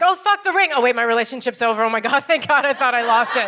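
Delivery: mock panic over a lost ring; panicked then relieved. Comic recalling her bare hand, mock panic. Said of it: "I'll be like".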